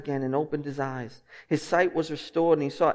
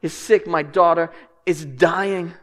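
desperate plea; 4 dB louder, slower than usual. Pretend. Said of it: "people in desperation come to Jesus".

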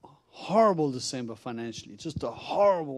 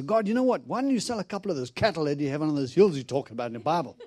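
angry at God; 2 semitones higher, 4 dB louder than usual. Retold or imitated. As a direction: reenact an exasperated complaint to God. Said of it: "I'm really angry. I'm upset at God".

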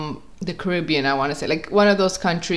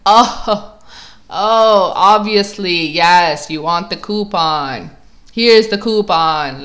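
louder, hammed-up show of understanding; mock realisation; 5 dB louder, slower than usual. Customer to desk lady after she points at coupon, loud mock realisation. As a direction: act as if it was obvious all along. Acts out sudden feigned understanding.

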